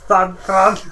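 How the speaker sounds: a hint of an American twang on "San Fran"; dodgy American accent. Mate repeats his mocked attempt at an American accent, laughing. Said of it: "very dodgy, backwards accent".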